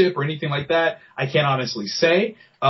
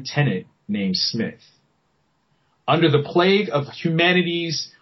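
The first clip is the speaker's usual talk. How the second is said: storyteller voice. Shown as a demonstration. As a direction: tell it like a movie trailer. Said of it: "I'm gonna put my, my storyteller voice on".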